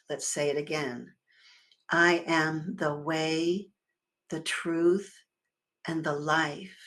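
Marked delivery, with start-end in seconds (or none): 1.9-6.8 slow, owning every word; said like you mean it. Shown as a demonstration. Minister leading the congregation to own the words, slow and sincere. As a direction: claim each phrase, slowly and with conviction. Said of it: "really own it, really say it like you mean it".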